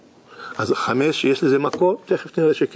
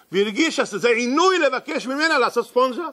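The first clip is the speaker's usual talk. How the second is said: laughing while telling; 9 semitones higher than usual. A narrator's reading. Maid resents mopping, teller laughs.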